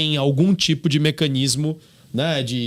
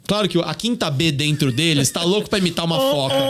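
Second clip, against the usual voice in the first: usual speaking voice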